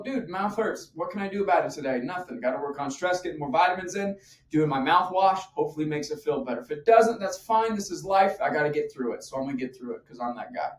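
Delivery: brisk, practical self-talk; matter-of-fact coping. Acted. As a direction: shrug off the pain and get on with it. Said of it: "Notice the difference".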